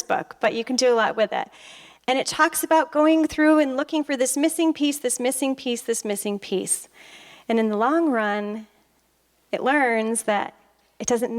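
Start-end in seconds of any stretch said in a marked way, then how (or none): 4.2-6.9 a weary loop, stepping down; repetitive listing. Retold or imitated. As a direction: let each "this missing piece" sink further. Repeating the endless search, trailing down.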